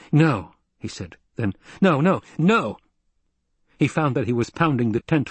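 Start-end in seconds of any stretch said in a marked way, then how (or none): 0.1-0.5 short, slightly raised protest; cry of denial. A narrator's reading. Paul cries out in denial. 1.8-2.8 higher, mounting repeated refusal; anguished denial. A narrator's reading. Paul pounds the floor in denial.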